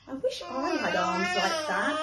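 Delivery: little hare longing; wistful little hare. Acted.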